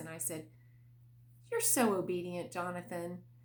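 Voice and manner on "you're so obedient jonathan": firm, confident delivery with mock full conviction. Retelling saying the line again to the child: retelling a line with conviction. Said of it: "more belief and conviction in my voice".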